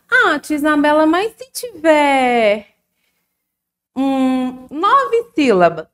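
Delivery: high, loud imitation of a questioning pupil; pupil's objection. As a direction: pipe up as a child querying the teacher.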